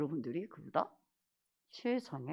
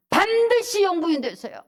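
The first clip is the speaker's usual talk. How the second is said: loud, high rallying cry; emphatic preacher's command; forceful exhortation; 10 semitones higher, 13 dB louder than usual. Real, not acted. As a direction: charge the congregation with full force.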